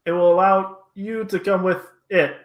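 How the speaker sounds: high, loud otherworldly creature; high alien guide voice; odd creature voice. Acted. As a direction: speak as the strange entity. GM voicing creature.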